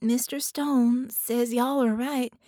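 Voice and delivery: put-on a child insisting on coming along; determined young girl; earnest little girl. A narrator's reading. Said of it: "Penny insists".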